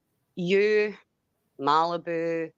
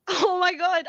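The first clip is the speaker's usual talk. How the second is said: laughing "oh my God"; 12 semitones higher, 4 dB louder than usual. Real, not acted. Reading her messages, bursts out.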